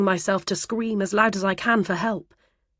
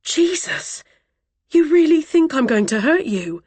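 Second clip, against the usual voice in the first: exasperated disbelief; 8 semitones higher, 5 dB louder than usual. Acted.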